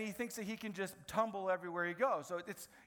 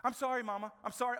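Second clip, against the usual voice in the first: imitated little boy's apology, higher; cute child apology; 4 semitones higher, 4 dB louder, faster than usual. Three-year-old apologising to his mama, cute imitated plea. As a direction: plead lightly like a sorry toddler. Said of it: "that's about as cute as you can get".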